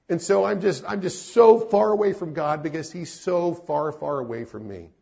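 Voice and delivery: high, loud pleading anguish; anguished confession. Retold or imitated. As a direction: voice a broken man crying out. Pastor voicing friend's despair.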